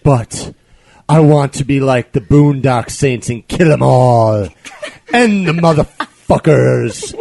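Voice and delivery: slow, drawn-out creepy reading with laughter; crazy reading. Acted. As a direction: read it like an unhinged stalker, slowly. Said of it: "Try to act crazy when you read them".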